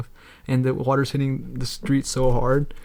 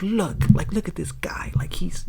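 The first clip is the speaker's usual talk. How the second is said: whisper; 5 semitones higher, slower than usual. Retold or imitated. Quoting post in whisper.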